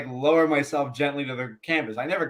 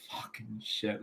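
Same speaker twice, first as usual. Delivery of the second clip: muttered curse; 5 semitones lower, 15 dB quieter, slower than usual. Retold or imitated. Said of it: "I'm like".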